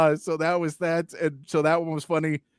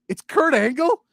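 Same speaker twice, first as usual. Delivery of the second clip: higher, louder amazed question; mock disbelief; 8 semitones higher, 5 dB louder than usual. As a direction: play up the shock at the casting. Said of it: "I'm like".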